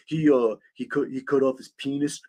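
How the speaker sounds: snickering dimwit teen impression; dumb teenager. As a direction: mumble it like a giggling dumb teenager. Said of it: "talked like a fucking typical dumb teenager".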